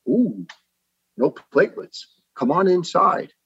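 high-pitched imitation of a concerned doctor; concerned woman doctor. Doctor sees patient has no platelets, high concern. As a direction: lift the voice high, coax the patient in. Acting out sympathetic female doctor.

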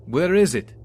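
high, loud furious roar. A narrator's reading. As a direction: roar it at the captive.

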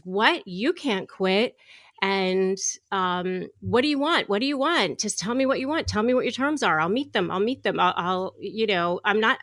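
a boss scrambling to keep her, mock alarm; flustered boss. Boss panics as she quits.

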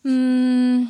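mock smug boyfriend; smug insistence. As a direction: insist like you can't be wrong. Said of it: "and he goes".

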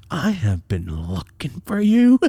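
slow, heavily spaced angry words; mad dad. Retold or imitated. Dad on phone to runaway son, mad. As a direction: imitate a furious father drawing out each word. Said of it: "I could tell he was mad".

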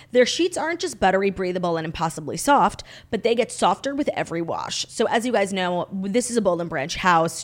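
scripted podcast sponsor read; measured, presentational promo delivery. Acted. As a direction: read it as a friendly host-read advert. Reads a sponsor ad.

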